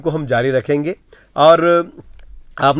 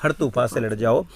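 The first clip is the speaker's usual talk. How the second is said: poem recital. Acted. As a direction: declaim the verse. (कविता पाठ का अंदाज़)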